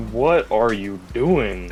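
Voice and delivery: slow, stretched-out incredulous question; drawn-out disbelief. Retold or imitated. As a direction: retell it slowly, stretching each word. Retells reacting to the accent.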